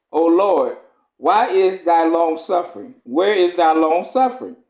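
measured, solemn scripture reading. Acted. Preacher reading Esdras to the congregation, solemn. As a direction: read the old text with gravity.

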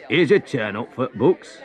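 laughing, jeering voice; mocking laugh. Bystander in the crowd mocking the prince, laughing. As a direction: chuckle at the prince's plight. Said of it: "someone in the crowd laughed".

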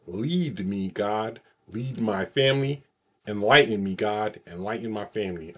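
slow, drawn-out final recital of the blessing; unhurried heartfelt closing prayer; slow solemn prayer. Shown as a demonstration. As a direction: lay each line down slowly, like the best take. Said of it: "here it is".

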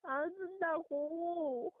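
crying. Real, not acted. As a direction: deny crying through tears. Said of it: "너 목소리 완전 그래".

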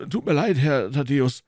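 high, loud stubborn porter voice; a guard who won't budge; gruff gatekeeper. Acted. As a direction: doorman refusing, loud and high. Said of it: "der unerschütterliche Torwart".

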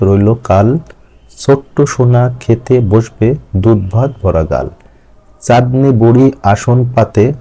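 put-on slow, measured children's verse; rhyme recitation. Shown as a demonstration. Teacher reading own rhyme aloud to students, slow recitation. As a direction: recite line by line, unhurried, settling at line ends. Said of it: "আমি ছড়াটা একটু পাঠ করছি".

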